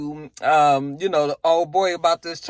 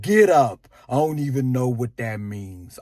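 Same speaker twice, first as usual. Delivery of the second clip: half-practiced take on Kanan; Kanan impression; 5 semitones lower than usual. Kanan telling Fame to get up, lightly imitated. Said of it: "I almost got it ... I've been practicing".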